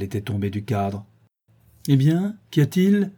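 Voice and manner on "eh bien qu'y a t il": cried out. A narrator's reading. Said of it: "criai-je".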